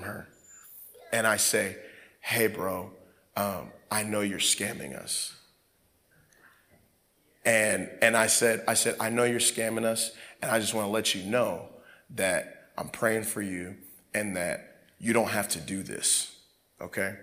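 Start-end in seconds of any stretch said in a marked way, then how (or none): 2.2-5.3 low, soft and understated; retold calm, quiet phone talk; calm confrontation. Calmly confronting the scammer on phone. 9.0-17.1 low, soft, earnest reassurance; retold quiet, caring plea; gentle appeal. Gently tells scammer he's praying.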